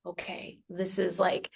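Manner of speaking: soft, almost voiceless okay; barely breathing it out; a whispered moment of realization; hushed realization. Retold or imitated. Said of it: "And it just was like".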